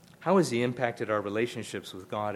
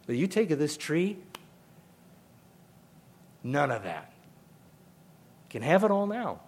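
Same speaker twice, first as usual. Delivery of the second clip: eager tempting serpent; 4 semitones higher than usual. Acted. Serpent voiced, tempting the woman.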